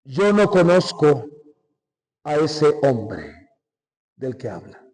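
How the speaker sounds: slow, low, hushed oath of denial; Peter's denial. Retold or imitated. Peter swearing to the crowd he never knew Jesus, slow and low. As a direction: drag out the words as if swearing an oath.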